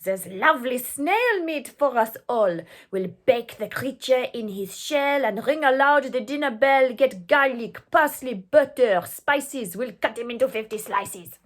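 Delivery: shouting mob. Acted. The French mob plans the feast, loud and eager. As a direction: gloat over the feast. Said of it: "The French were shouting".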